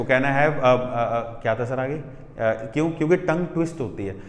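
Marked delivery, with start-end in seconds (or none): 0.0-1.4 imitating a stumbling student; mock tongue-tied hesitation; getting stuck. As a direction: start the line, then stall on filler sounds. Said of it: "आधे बोल नहीं पाए इसको".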